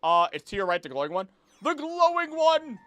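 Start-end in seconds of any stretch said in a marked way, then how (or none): 1.6-2.8 higher, louder and slow, stressing one; insistent call. Real, not acted. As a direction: call it out so they finally see it. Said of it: "repeats louder".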